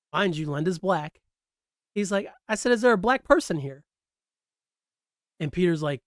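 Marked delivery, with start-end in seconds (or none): 2.5-3.8 imitating Chit. Chit repeats his question.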